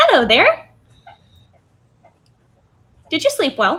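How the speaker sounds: bright, bouncy, sing-song, very cheery voice. Narrating a scene, the storyteller voices a moth-like being greeting the listener: really cheery voice. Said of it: "you hear this really cheery voice in your head".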